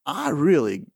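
calm request. Retold or imitated. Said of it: "Well, that's calm".

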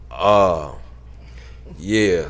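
halting, intimidated answer with a long pause; hesitant reply. Retold or imitated. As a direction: play a kid unsure what to say. Cowed boy answering angry man.

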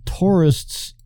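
slow "tourists" with a Kennedy-style Boston vowel; Kennedy-like accent. Real, not acted. Teased by friends for saying tourists, Kennedy-like accent. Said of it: "drop the Kennedy accent".

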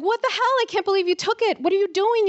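shrill-pitched scolding, re-enacted; retold yell. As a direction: yell it like a furious big sister. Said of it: "And I yelled at him".

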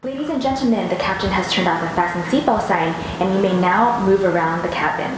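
cabin crew PA, polite and formal; flight attendant announcement. Pretend. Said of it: "delivering an in-flight passenger announcement".

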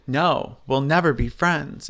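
dramatic line in a hoarse sick voice; lightly hammed-up dramatic reality-star delivery; Lauren Conrad. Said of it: "in my sick voice".

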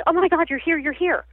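high-pitched astonished recognition; amazed exclamation, relived in the telling; retold amazement. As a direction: re-enact stunned joy, pitch jumping up. Retelling her friend's sudden apparition.

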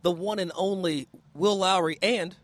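soft, smooth TV host read; television voice. Acted. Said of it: "Is this your, this your television voice?".

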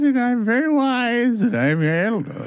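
laughing through a wizard voice; half-laughing, low wise-elder voice; old wizard. Pretend. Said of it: "this is an old wizard".

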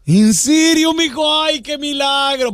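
imitating a mom stunned by her son's grade; amazed mother. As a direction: gasp it like a surprised mother. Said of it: "llegó con su mamá".

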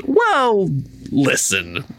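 high, smooth, patronizing advice; Justin Hammer. Retold or imitated. Hammer lecturing Vanko to let go, high and patronizing. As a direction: soothe him like a smug life coach. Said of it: "Justin says".

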